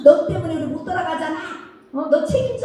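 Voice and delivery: fast, high-pitched mock blame; mock blaming. Brothers blaming the youngest for trapping them, fast mock anger. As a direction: rattle off the blame like a fed-up brother.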